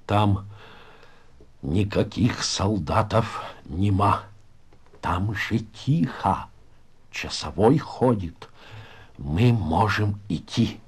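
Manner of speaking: understated breathless report in short pieces; short of breath. Acted. Pinya back from the hole reports to comrades, short of breath. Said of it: "задыхающийся от чего-то".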